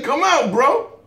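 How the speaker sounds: high, pushy mock challenge; voicing the kangaroo. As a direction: imitate a kangaroo calling someone out. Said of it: "He's like".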